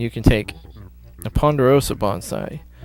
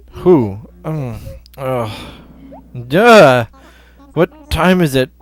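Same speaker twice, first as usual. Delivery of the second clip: sleepy owl curator; 2 semitones higher than usual. Acted. Reads sleepy owl curator lines.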